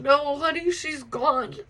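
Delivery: gentle grandma. Retold or imitated. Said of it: "she just said".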